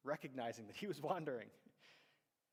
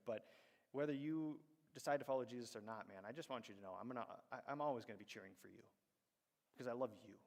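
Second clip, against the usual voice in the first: tender plea; 2 semitones lower than usual. Retold or imitated. Tender talk to struggling friend.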